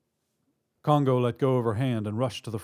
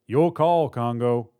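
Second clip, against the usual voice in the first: shouted; 7 dB louder, slower than usual. A narrator's reading. Robber at teller window to partner, shouting. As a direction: throw the decision back across the room. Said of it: "the other man shouted".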